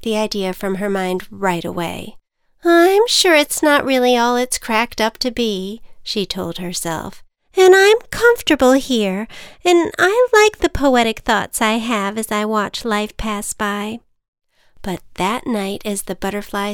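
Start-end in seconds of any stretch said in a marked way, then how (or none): 2.6-5.8 butterfly voice. Acted. Butterfly talks herself out of it. 7.6-14.0 a nervous little butterfly. Acted. Butterfly character voice.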